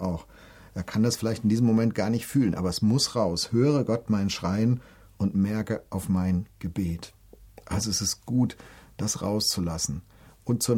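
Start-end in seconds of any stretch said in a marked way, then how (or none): 3.5-7.1 drawn-out, solemn psalm line; slow reverent recitation; slow scripture quote. Acted. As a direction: let each word of the prayer land.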